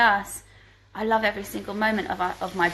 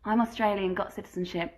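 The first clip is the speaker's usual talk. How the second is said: put-on Australian accent, badly faked. Viewer questions answered on a livestream, in a bad Australian accent. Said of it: "sorry for my bad Australian accent".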